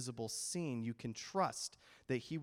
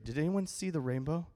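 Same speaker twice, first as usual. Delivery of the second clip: ordinary delivery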